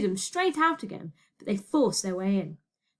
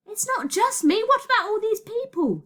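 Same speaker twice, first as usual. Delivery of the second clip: high, raised-voice protest; urgent protest; 11 semitones higher, 4 dB louder than usual. Acted. Shouted argument on runaway train.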